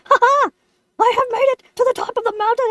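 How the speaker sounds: mock-grand triumphant boast. Lemon on top of the mountain, triumphant. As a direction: proclaim it with a hammed-up "ha ha".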